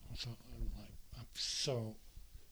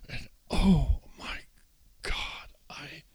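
hushed aftermath; 3 semitones higher, 4 dB quieter, slower than usual. Real, not acted. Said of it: "after the outburst, breathless".

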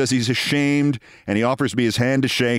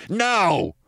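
retold shout; 7 semitones higher than usual. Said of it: "the kid shouts".

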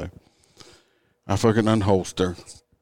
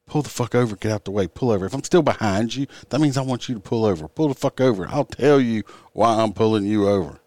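heated lecture; 4 semitones higher, 5 dB louder than usual. Retold or imitated.

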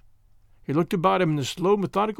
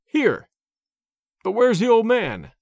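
high, loud disbelief; startled, incredulous exclamations, pitched up; astonished; 5 semitones higher, 4 dB louder, slower than usual. A narrator's reading. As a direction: burst out in amazement. Jones astonished at the disguise.

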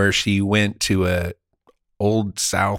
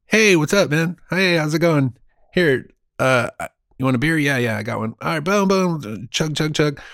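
lively party-bro banter; pumped, revved-up buddy talk; frat bro; 3 semitones higher than usual. Retold or imitated. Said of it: "this is me pre-ninety-five".

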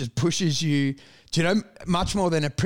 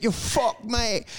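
higher-pitched mock British gypsy accent; attempted gypsy accent; 4 semitones higher, much slower than usual. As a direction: have a rough go at a gypsy tradie's accent. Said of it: "I can't even do the accent".

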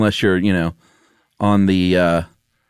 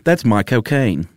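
Michael Caine voice; slower than usual. Shown as a demonstration. Showing the co-host how Michael Caine would say it, in a slow Cockney lilt. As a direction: lean into the London vowels of "cocaine". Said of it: "say it the right way and not like a robot".

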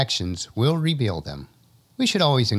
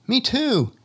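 high shout across the valley; calling out; 13 semitones higher than usual. Acted. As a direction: yell it to the far ridge. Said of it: "Someone else calls out".

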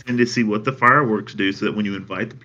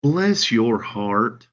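"Bless your heart" said slow and kind, stretched out; sincere bless your heart; much slower than usual. Shown as a demonstration. Showing a friend the kind meaning. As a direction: genuine sympathy, drawn out. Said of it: "let me use it in context both ways".

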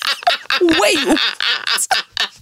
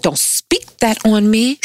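serious. Retold or imitated. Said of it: "Like, completely serious".

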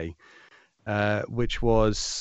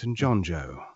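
smooth polished devil. Pretend. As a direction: purr a polite threat like the devil. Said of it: "I need to hear the devil voice now".

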